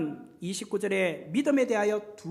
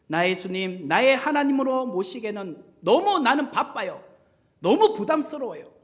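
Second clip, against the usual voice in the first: dismissive. Acted. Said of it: "어떤 분은 이렇게 말합니다".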